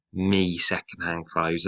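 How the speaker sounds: "me second-hand clothes" in a light northern working class accent; northern dialect. Shown as a demonstration. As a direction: slip into a Liverpool working class voice. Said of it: "almost go into character".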